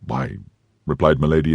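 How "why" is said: embarrassed. A narrator's reading.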